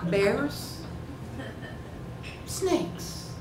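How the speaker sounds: feigned nonchalance, asking softly; casual, offhand. Retold or imitated. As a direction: toss it out as a casual question. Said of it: "I decided that casual and offhand was the right approach".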